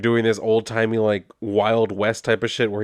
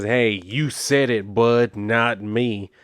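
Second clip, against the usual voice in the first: words squeezed out of one side of the mouth; lightly voiced sheriff with chew in his lip, dismissive; tobacco-chewing cop voice; much slower than usual. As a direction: play the smug small-town cop who couldn't care less. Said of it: "talking like that".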